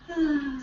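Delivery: soft Friday afternoon sigh; relaxed sigh. Shown as a demonstration. Teacher showing the relaxed schwa, soft sigh. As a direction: let out a slack, relaxed sigh. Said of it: "schwa was like Friday afternoon".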